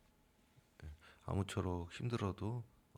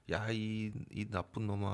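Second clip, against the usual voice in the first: retold angry scolding; 3 semitones higher than usual. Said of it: "하고 욕을 해가지고".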